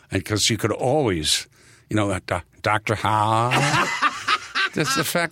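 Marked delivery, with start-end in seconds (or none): 2.2-3.5 slow, dopey shark guess; a dim shark bluffing; land shark voice. Retold or imitated. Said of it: "did the shark voice".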